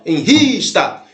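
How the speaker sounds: "Enrista" with a long, stressed "ris". Shown as a demonstration. Teacher pointing out the strongest syllable, stress on "ris" in "Enrista". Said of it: "É o ris, ó".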